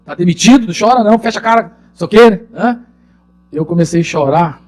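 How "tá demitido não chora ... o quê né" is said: higher, louder TV-host scolding, hammed up; mock the TV host telling someone not to cry; imitating Justo. Impersonating Justo telling a fired man not to cry, loud mock scold. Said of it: "aquele programa do Justo que fala".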